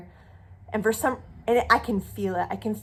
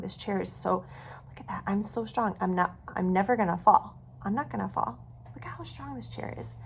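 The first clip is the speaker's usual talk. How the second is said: soft awed whisper; whispered self-talk; 6 dB quieter than usual. Shown as a demonstration. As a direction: whisper reassurance to yourself. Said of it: "demo whispered self-talk".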